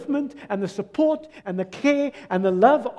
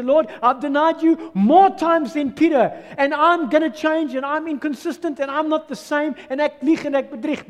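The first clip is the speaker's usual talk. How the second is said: louder, higher pleading confession; fervent prayer; 5 semitones higher, 4 dB louder than usual. Acted. Sinner confesses to the Lord, loud and fervent. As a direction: cry out your failures to the Lord.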